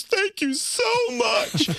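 very high, drawn-out squeal of gratitude; mock gushing thanks. Wife spinning round in roller chair to husband, hammed-up gushing thanks. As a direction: imitate an overjoyed wife, slow and sky-high. Retold wife's relieved, grateful outburst.

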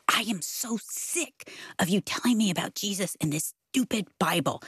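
ordinary talk

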